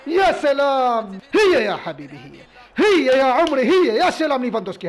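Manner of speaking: loud, high drawn-out whoops; goal celebration. Real, not acted. Gamer celebrating a scored penalty, loud whoops.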